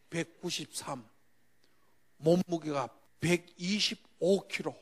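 ordinary talk, nothing marked

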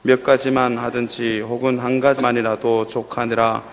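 slow, measured Bible reading aloud; scripture reading. Acted. Pastor reading scripture aloud to the church, slow and measured. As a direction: read the passage steadily to the congregation.

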